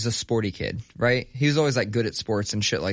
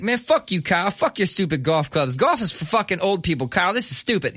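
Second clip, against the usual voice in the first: taunting; 6 semitones higher than usual. Retold or imitated. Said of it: "just being a dick".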